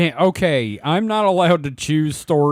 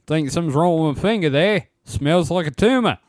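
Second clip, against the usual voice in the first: mock Australian accent. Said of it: "we are doing Australian accents".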